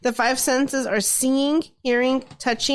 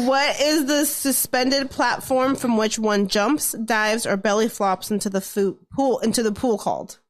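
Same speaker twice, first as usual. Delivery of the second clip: slow reread through a laugh; slower reread. Real, not acted. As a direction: read it again, slowly and clearly. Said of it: "I don't even know what she said".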